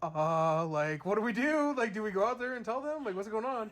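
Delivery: nervously asking what to do; mock alarm. Family at the window, mock worried. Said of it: "And they're like".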